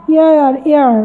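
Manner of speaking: এয়ার repeated as air, no h; pronouncing এয়ার. Shown as a demonstration. Teacher repeating the sound of heir for learners. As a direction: say এয়ার twice, open vowel. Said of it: "এয়ার উচ্চারণ হচ্ছে".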